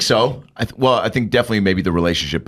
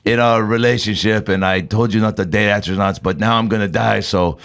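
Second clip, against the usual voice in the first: put-on Russian accent. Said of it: "he's got a Russian accent".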